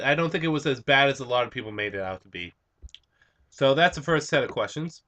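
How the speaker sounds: talking through a mouthful of food; chewing noisily. Real, not acted. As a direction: chew while you speak. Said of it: "sorry I'm eating while I'm doing this".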